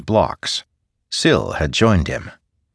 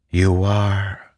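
soft, airy spirit voice; wind spirit; 3 semitones higher than usual. A narrator's reading. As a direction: breathe it like the wind. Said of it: "the wind's voice said softly".

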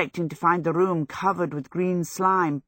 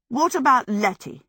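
raised, pointed demand; pointed question; 6 semitones higher, 3 dB louder than usual. A narrator's reading. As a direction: challenge him, refusing his plea. Sophie confronts Howl, first asking.

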